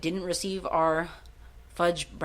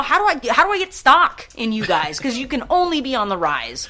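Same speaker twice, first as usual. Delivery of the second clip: higher and louder, gushing; giddy excitement; 5 semitones higher, 7 dB louder than usual. Retold or imitated. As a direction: hype it like a fan. Retelling his wish to invest.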